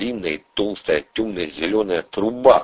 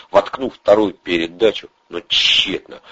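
ordinary talk, nothing marked

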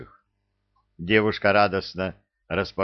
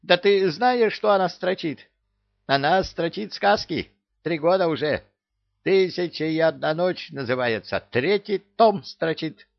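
frantic parrot; 10 semitones higher than usual. A narrator's reading. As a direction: rant hysterically. Parrot exposes writer.

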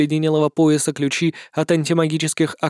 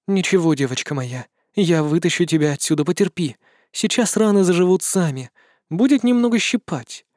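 soothing murmur. Acted. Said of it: "приговаривала она".

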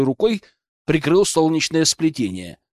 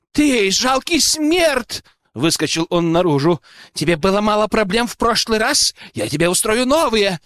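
shrill outraged noble; 6 semitones higher than usual. Acted. Nobleman storming out at the hero, shrill and outraged. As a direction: scream like a pampered lordling.

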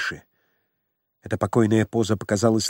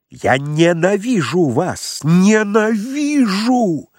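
ненавидящий крик; 7 semitones higher, 4 dB louder, much slower than usual. Acted. Лаевский в ненависти.

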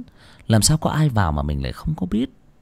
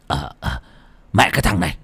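shaken grunt, then a loud, quick, higher rebuke; startled scolding; 5 semitones higher, 5 dB louder, faster than usual. Acted. Father scolding his son for waking him at night, loud and fast. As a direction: snap at the boy to hide the fright.

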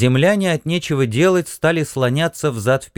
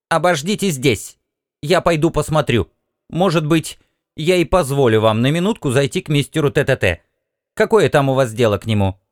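clipped and businesslike; sharp metallic voice; 3 semitones higher than usual. Acted. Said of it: "Резкий металлический голос".

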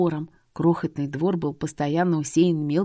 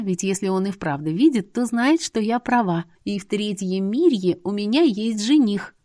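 plain reading voice

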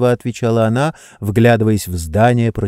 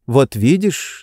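ordinary delivery, nothing marked

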